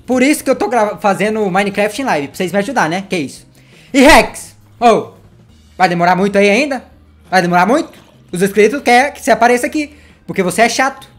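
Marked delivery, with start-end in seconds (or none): 3.9-7.9 calling out. Real, not acted. Calling Rex to appear.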